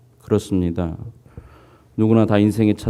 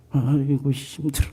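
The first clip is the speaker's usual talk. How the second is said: a hint of a weak man moaning, softer; feeble whining; 4 semitones higher, 4 dB quieter than usual. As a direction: whine feebly to God, lightly voiced. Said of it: "계속 저렇게 비리비리 그러고 살았을 거예요". (약하게 칭얼대는 병약한 남자, 살짝 흉내)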